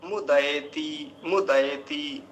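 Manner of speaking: मुदयति slowly as "mu-dai-ti"; full ai vowel. Shown as a demonstration. Teacher answering how two matras sound, full ai in मुदयति. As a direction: stretch the "ai" in मुदयति. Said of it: "अभी दो मात्राएं हैं".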